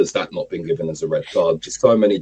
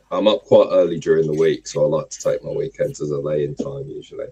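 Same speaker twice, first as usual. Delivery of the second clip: croaky morning voice; rough, just-woke-up throat; hoarse voice. Real, not acted. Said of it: "Have you got a sore throat".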